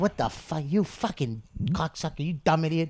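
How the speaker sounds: play-acted furious, angry outburst. Retelling how Nick DiPaolo reacted to a fart on the airport bus: mock-angry Nick DiPaolo impression. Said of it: "Nick DiPaolo just got angry".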